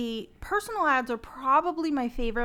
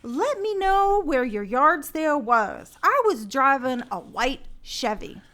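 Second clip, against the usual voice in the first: radio reading voice; 5 dB louder than usual. Acted. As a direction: read the ad deliberately, punching the words. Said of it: "Where do you get that voice from".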